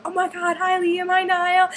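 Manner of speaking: put-on high-pitched fan-girl hellos; retold fan greeting. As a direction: imitate a star-struck fan calling hello up high. Fan greets band members, acted.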